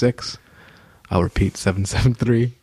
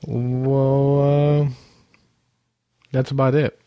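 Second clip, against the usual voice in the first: sexy voice; 4 semitones higher, much slower than usual. Acted. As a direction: put on a sultry radio voice. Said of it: "Why am I doing my sexy voice?".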